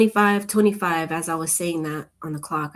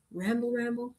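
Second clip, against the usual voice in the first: sing-song teasing; 5 semitones higher than usual. Pretend. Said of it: "I just ramble on".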